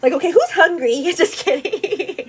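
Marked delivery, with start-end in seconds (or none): 0.1-1.0 higher, louder playful mom call; mock mealtime call. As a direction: jokingly call the babies to feed. Acts mother calling babies to feed.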